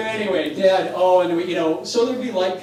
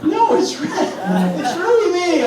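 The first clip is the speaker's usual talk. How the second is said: much higher, laughing silly voice; 10 semitones higher, 5 dB louder, slower than usual. Retold or imitated. Mother insisting at the door in a silly high voice. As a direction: pitch way up and plead playfully. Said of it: "just in that silly voice".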